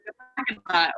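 imitated Mainer saying "parking" without the R; Maine accent. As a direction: drop the R in "parking", Maine-style. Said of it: "And they said".

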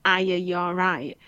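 "Are you, you all right" slurred into a single word; run together as one word. Shown as a demonstration. Customer service worker explaining a local greeting, run together as one word. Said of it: "Which is one word".

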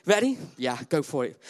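lightly voiced nervous contestant from Stoke-on-Trent; a hint of a bashful hopeful; mild contestant introducing himself; shy contestant. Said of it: "Hi, my name's...".

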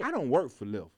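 understated retold protest; trying to be respectful. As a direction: correct her politely, keeping cool. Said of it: "I'm still trying to be respectful".

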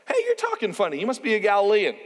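lightly voiced bystander, starting high; accusing bystander. Bystanders to Peter about his accent, mock accusing. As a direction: call out an accusation in a mildly put-on voice.

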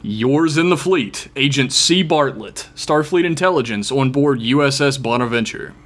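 reading the email as a stern action hero; mild, earnest hero read; real action hero voice. Acted. Reading a Starfleet agent's email, light action hero voice. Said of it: "that's my real action hero voice".

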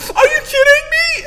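high tearful cry of disbelief; wife sobbing on the phone, crying. Retold or imitated. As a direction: sob it out high.

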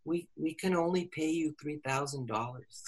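retold apology. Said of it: "she paused a minute and she said".

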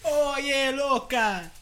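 put-on high, loud Bronx Latina accent; hammed-up Bronx Latina accent. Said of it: "Do it in a Bronx Latina accent".

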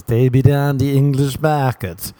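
light English mate impression, slow; mild imitation of a friend's English talk; Leo's voice. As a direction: drawl it like your mate Leo. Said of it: "That's how Leo talks".

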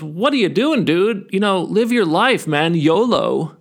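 a hint of laid-back dude, lilting upward; carefree grasshopper. Carefree grasshopper chides the hard-working ant, lightly mocking dude voice. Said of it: "And the grasshopper goes".

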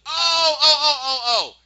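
real laughter breaking through high and loud; cracking up while recapping the scene, real laugh. Real, not acted. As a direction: laugh helplessly at the memory. Laughs recalling Jack's breakdown.

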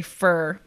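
FUR said to rhyme with "her"; O turned to E. Shown as a demonstration. Explaining her own inflection, FOR reduced to "fur". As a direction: say "for" as FUR, no O sound. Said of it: "I dropped the O and put an E in there. I say".

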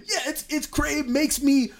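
real laughter, very high-pitched voice; laughing. Real, not acted. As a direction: crack up while agreeing. Cracking up at friend's remark.

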